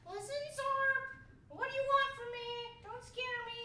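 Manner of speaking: high, loud panicky plea; mock fear. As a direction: beg it in hammy fright. Scared of alien.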